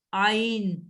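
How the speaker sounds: آئین said as "aa-een", opening on a long alif sound; alif sound first. Shown as a demonstration. Teacher repeats the letter name for the student, slow careful model. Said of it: "آئین کے آگے الف کی sound نکالو".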